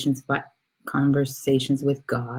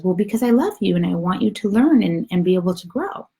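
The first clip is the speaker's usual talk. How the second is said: raised, earnest storybook voice; loving little soul; 5 semitones higher, 3 dB louder, faster than usual. Acted. Other soul explains why it helps, lovingly earnest. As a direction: explain your love in a higher little voice. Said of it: "the other little soul says".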